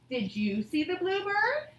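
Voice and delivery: rising question tune, a bit slow; asking tune. Shown as a demonstration. Teacher models an asking sentence for her class, rising tune. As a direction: let the voice climb as you ask. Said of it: "asking sentences or questions".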